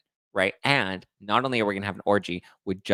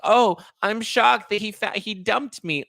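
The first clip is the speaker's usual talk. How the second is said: much higher, whiny mock shock; mock shocked girlfriend; 12 semitones higher, slower than usual. Host mocks the dumped girlfriend, much higher mock shock. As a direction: parody her fake surprise. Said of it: "and then it being like".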